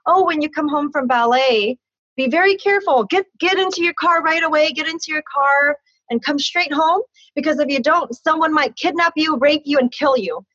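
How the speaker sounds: stepdad's warning. Retold or imitated.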